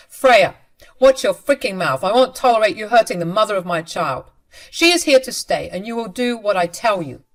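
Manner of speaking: loud, stern warning at his wife; angry threat. Acted. Husband snapping at his wife to protect the mistress, loud and angry. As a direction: bark the order at her, furious.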